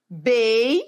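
"Bei" held alone, gliding up; syllable separated. Shown as a demonstration. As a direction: sound out "Bei" as one isolated syllable. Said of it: "separar a sílaba".

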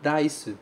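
"Rice," with a tapped R; Japanese rice. Shown as a demonstration. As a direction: model "Rice," with a flap. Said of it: "muito cuidado com isso". ("Rice" com R batido)

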